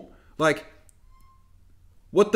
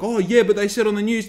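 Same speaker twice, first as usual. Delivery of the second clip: higher and louder, slowing on the end; mocking ranting shout; 6 semitones higher, 5 dB louder than usual. Vlogger ranting at news believers, loud mocking. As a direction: hammer it home in a rising rant. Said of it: "they're gonna go like".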